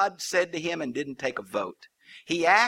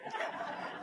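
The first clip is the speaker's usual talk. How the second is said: unvoiced lightning noise; comic lightning sound effect; imitated lightning crash; 14 dB quieter than usual. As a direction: make a crackling thunderbolt sound with your mouth. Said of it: "And then lightning goes".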